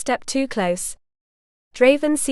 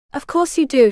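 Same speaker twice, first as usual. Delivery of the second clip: sharp retort; 4 semitones higher, 4 dB louder than usual. A narrator's reading. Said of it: "she shot back".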